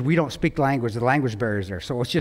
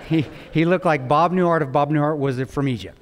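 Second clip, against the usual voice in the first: laughing. Real, not acted. Laughing at own joke.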